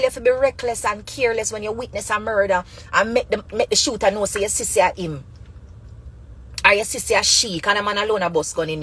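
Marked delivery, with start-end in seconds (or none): none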